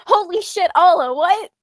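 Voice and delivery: high, astonished exclamation; exaggerated high-pitched disbelief; mock shock. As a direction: act out onlookers stunned by a reveal. Imagined onlookers reacting to giant reveal.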